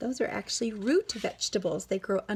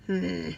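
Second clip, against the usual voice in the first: sleepy grunt; 5 semitones lower, 3 dB quieter than usual. Acted. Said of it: "Bear opened one eye and grunted".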